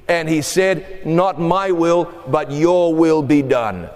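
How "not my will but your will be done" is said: solemn surrender. Acted. Jesus yields in the garden.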